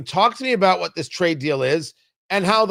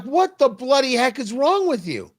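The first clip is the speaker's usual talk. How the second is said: mock European voice; 4 semitones higher than usual. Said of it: "European markets are like".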